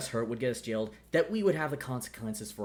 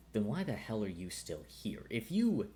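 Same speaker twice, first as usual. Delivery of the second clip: weary sigh. Acted. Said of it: "he just sighs and goes".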